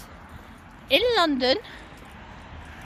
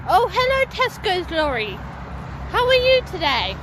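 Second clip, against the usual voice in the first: mock greeting to a lorry; 6 semitones higher than usual. Real, not acted.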